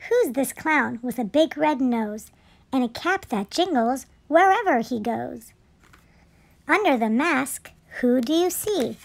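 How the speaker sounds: measured picture-book narration; children's story reading. A narrator's reading. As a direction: read it aloud to little children.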